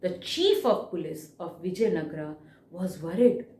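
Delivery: stressed opening, easing off towards "worried"; expressive reading aloud. Shown as a demonstration. Teacher showing the class book reading, expressive and concerned at the end. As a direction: read in phrases, sinking into concern. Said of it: "What did I do?".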